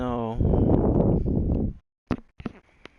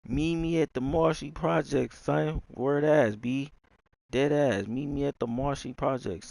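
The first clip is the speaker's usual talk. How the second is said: higher-pitched, insistent New York slang act; hammed-up New York directions; putting on New Yorker; 4 semitones higher than usual. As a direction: play up the street talk, pitched up. Playing at New York street slang.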